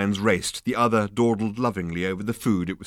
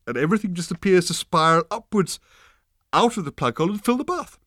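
animated, higher-pitched explainer; drunk enthusiast character; 7 semitones higher, 4 dB louder than usual. Acted. Ford explains his bath trick to Arthur, excitedly.

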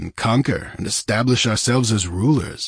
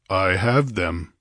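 imperturbable; slower than usual. Acted. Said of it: "answered Conan imperturbably".

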